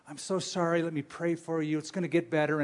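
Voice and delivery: softly voiced sympathy; gentle consoling. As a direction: comfort someone hurting, quietly and tenderly. Acted comforting of someone suffering.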